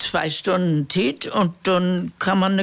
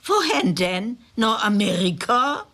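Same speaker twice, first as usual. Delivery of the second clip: poem recital; 2 semitones higher than usual. Acted. Reading Reuter's poem to radio listeners, measured recital. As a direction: recite it like a village storyteller.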